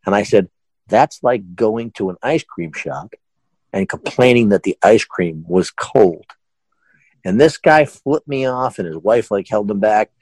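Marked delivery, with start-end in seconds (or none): 0.9-6.3 slow, measured retort; deliberate explaining. Retold or imitated. Boss answering unreasonable customer, slow and deliberate. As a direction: spell out the absurdity phrase by phrase.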